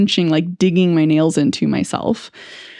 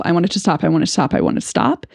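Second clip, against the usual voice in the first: repetitive emotional words; much faster than usual. Shown as a demonstration. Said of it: "the only words coming out of my mouth".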